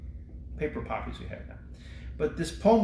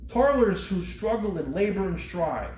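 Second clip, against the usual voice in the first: poem recitation. Acted. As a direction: recite it like a tribute to the fallen.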